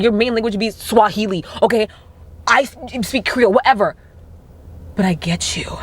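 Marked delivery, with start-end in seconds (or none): 5.0-5.8 whisper. Real, not acted. Woman telling other black women she gets them, whispering. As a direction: breathe it like a secret.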